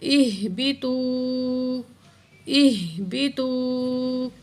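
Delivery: اہبطوا slowly, the ہ breathed from the chest. Shown as a demonstration. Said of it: "یہ سینے سے نکلتی ہے یہ والی ہا". (اہبطوا میں ہا سینے سے نکالیں)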